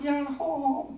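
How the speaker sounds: high, drawn-out answering call; mountain echo. Shown as a demonstration. The echo from the far side of the mountain, high and drawn out. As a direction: imitate an echo coming back from afar. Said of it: "메아리가 울려치는데".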